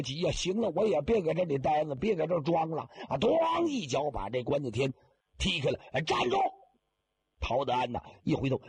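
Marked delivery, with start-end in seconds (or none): 5.9-6.4 sharp high yell to stop him; old man kicking open the coffin, shouting much higher; sudden shout. Acted. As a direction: bark it out high, leaping up.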